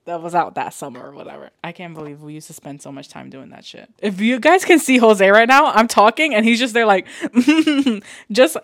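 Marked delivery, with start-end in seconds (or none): 4.0-8.6 laughing. Real, not acted. Laughing at Jose eating.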